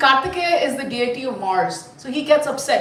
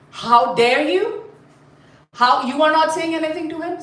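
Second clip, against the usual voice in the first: upset wife; 3 semitones higher than usual. Acted. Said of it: "Bhagavati Durga is upset".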